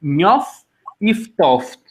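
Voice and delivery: Njof and if toft with an f for the h, in Albanian dialect. Shown as a demonstration. Teacher imitates dialect speakers, h said as f. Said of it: "it switches to a F".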